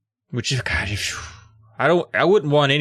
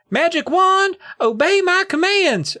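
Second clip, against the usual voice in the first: high, theatrical shout; mock grand command; slower than usual. The speaker commands his trick wand before the audience, high theatrical shout. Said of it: "I shouted".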